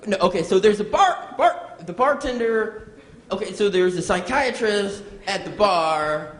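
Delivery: fumbling joke delivery full of false starts; bad joke teller. Comic impersonating someone botching a bar joke, bad joke teller. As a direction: keep breaking off and restarting, flustered. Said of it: "a bad joke teller".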